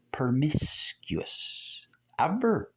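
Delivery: slow whisper, no voice; whispered emphasis. Acted. Preacher whispers to the congregation that they were never promiscuous. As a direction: hush it like a secret.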